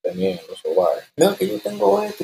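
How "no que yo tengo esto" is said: confessing woman. Retold or imitated.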